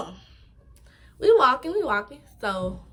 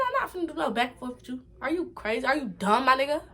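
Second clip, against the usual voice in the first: put-on New York accent; 3 semitones higher, faster than usual. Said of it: "My New York accent came out".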